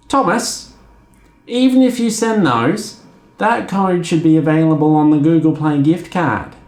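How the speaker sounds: patient agent explaining no; mock agent voice. Agent refusing again.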